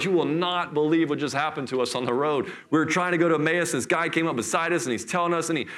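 lightly acted rush of big news; excited retelling. Disciples telling their buddies what just happened, excited retelling. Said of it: "they're going nuts".

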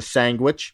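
"sandwich" said as "sangwich"; playful mispronunciation. Retold or imitated. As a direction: put an ng sound in "sandwich": sang-wich. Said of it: "Or mispronouncing that word".

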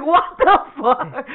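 comically incredulous; mock disbelief. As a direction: drag it out, acting dumbfounded. Acts his baffled reaction.

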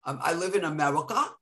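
little boy echoing a New York accent, lightly imitated. Nanny quoting the little Spanish boy, imitated New York accent. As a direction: drop the R's in park and car, like a kid copying. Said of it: "that's how I picked up my accent".

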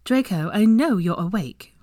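firm, brisk motherly telling-off; stern mother's voice; no-nonsense mother. A narrator's reading. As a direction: call out a son feigning sleep. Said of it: "his mother's no-nonsense voice".

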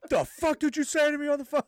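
high, far mock-furious demand; mock angry yell. Hazer kicking the door in, a mock furious demand. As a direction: bark it like an angry sergeant, playfully.

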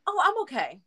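imitating short reply. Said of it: "very short answer".

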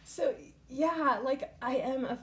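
high unvoiced laugh, pitch jumping way up; teary laugh. Real, not acted. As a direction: laugh it off through tears. Laughing through tears.

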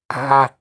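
Acqua with a wide open A and a crisp kwa; careful Italian Acqua. Shown as a demonstration. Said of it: "Like this".

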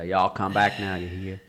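half-hearted Southern American farewell; Australian faking Southern hospitality; attempted Southern accent. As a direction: have a soft go at a Southern accent. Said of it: "I can't do an American woman Southern accent".

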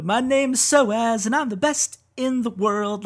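slow, lightly voiced cocky self-intro; a hint of Soaz singing to his mirror, slowly; mock Soaz boast. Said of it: "sings the same song that you just sang".

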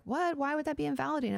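high, quick mock disbelief; incredulous objection. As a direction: blurt it out like a baffled objector. Voices the baffled listener objecting.

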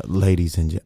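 mock-seductive radio intro; sexy voice. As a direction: start a sultry introduction, then break off. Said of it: "I'm on my sexy voice".

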